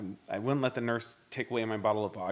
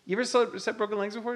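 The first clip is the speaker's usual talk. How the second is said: suspicious question; 10 semitones higher than usual. Retold or imitated. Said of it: "I'm like".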